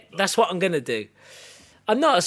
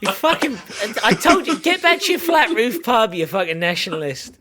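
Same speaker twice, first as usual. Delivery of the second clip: mock telling-off; 4 semitones higher than usual.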